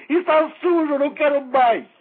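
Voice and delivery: loud, high, hammed-up disgust; mock disgusted outburst. Mocking the man who complained about his hygiene, loud fake disgust. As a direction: spit it out like a disgusted refusal. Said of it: "e disse".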